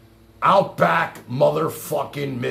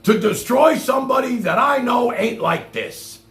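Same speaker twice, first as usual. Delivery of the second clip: indignant echo; 6 semitones higher, 3 dB louder than usual. Retold or imitated. Echoes clip line indignantly.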